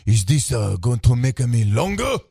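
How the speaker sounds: slow mock Asian accent; imitated Asian accent. Asian customer asking about pills, imitated Asian accent. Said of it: "he was an Asian gentleman".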